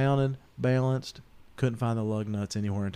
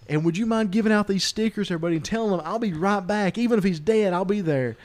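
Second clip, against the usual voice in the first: higher and louder, laughter breaking through the retold lines; can't keep it together while quoting Farva; laughing through quote; 10 semitones higher, 8 dB louder than usual. Telling friends Farva's awful news, laughing through it.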